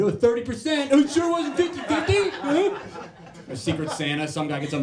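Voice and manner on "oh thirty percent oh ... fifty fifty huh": much higher, louder snide coworker voice; squeaky taunting office mate; mocking coworker. Coworker mocking him about the thirty percent, shrill mocking tone.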